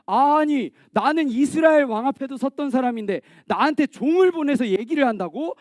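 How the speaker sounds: mildly miffed, acted-out general; mock anger. Naaman snubbed by a mere servant, mildly angry. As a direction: protest with a touch of wounded pride. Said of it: "막 화를 냈어요".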